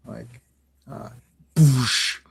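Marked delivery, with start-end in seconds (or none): 1.6-2.2 explosion noise. Acted. Imitates explosion in comic.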